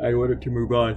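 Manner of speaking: talking while yawning. A cartoonist talking through their workday, yawning. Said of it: "Sorry, yawning time".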